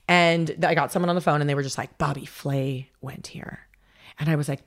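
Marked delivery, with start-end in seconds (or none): 2.0-3.6 mock receptionist. Imitating the school's phone receptionist.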